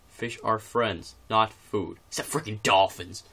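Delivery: slow, loud mock Russian accent; slow hammed-up Russian accent read. Shown as a demonstration. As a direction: ham up a thick Russian accent, slowly. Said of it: "then I'm urging to do the actual accent".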